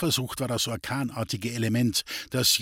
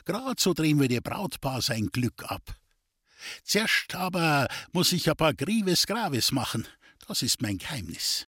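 put-on lightly raised voice of a sly old gypsy; a hint of a wheedling gypsy fortune-teller; 4 semitones higher than usual. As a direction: tease him with the rival's luck. The gypsy Duli explains the spell.

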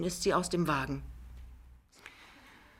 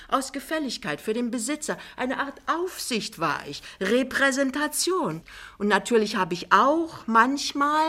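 put-on animated older lady explaining herself, slightly raised pitch; lightly voiced mother-in-law, self-justifying; 4 semitones higher than usual. Mother explains her bar job to the couple, self-justifying. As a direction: justify yourself with a touch of grandeur.

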